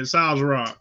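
Sazerac with "ah" vowels; own pronunciation of Sazerac. Shown as a demonstration. Defending how I say it, Sazerac with "ah" vowels. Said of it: "that's how I say it".

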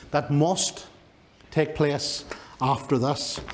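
slow, spaced out, with a pause after "must". Real, not acted. Preacher lingering over a key word in the verse, slowed down. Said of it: "slow down here".

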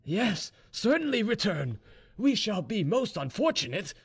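high-pitched, smiling assurance. A narrator's reading. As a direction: voice lifted well up, smiling as you speak.

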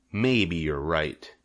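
slow, grudging rat voice; gruff. Acted. Templeton grudgingly giving in to the old sheep, gruff. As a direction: give in grudgingly. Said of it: "he said gruffly".

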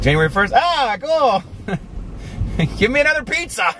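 mock carefree slacker, voice jumping high; lightly voiced lazy quitter brushing off the gym. Vlogger mocking New Year quitters, carefree high voice. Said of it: "they're like".

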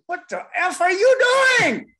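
throwing an intruder off the stage, furious shout. Retold or imitated. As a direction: roar at him to get off the bandstand. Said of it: "And I do one of these".

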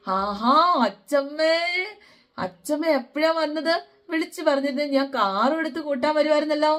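light up at seeing grandma; delighted greeting. Retold or imitated. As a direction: grandson surprised and thrilled that grandma came.

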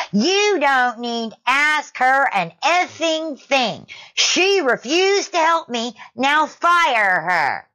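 imitated screech, very high and stretched out; very shrill scream. Karen ordering the manager to fire the shopper, mock shrill screaming. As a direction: screech slowly like a furious Karen. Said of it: "in a very shrill voice".

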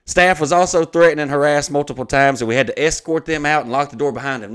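declaimed formal complaint, even and unbroken; email read-aloud. Acted. Venue complaining to the comedian's agent, formally read aloud. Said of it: "I'm gonna read the email".

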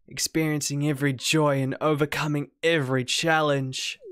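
lightly voiced, intensely devoted character; steady, understated pledge of devotion; devoted Penny.

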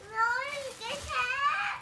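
sudden high defiant yell; shouting back. Real, not acted. Scolded child shouts back at mother, defiant.

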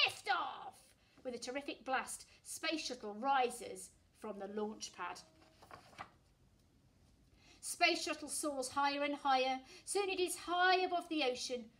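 put-on lively read-aloud voice for children; storytelling. A narrator's reading. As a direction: read it like a bedtime picture book. Reading a picture book aloud.

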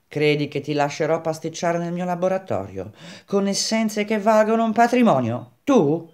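rising, incredulous challenge; scornful disbelief. Acted. Baldini refusing his laboratory to Grenouille, incredulous.

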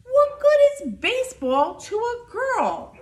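high, loud headline cry; shouted newspaper headline, pitched high; blaring headline. A narrator's reading. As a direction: blare it out like a newsboy. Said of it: "blared the newspaper headlines".

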